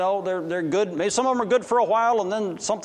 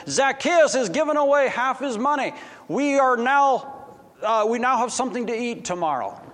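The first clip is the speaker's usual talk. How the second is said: excited; 4 semitones higher than usual. Acted. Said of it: "And they're all excited".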